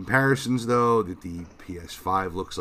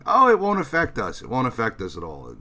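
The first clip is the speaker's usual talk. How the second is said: mocking dismissive quote; 4 semitones higher, 5 dB louder than usual. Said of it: "their leaders were saying that".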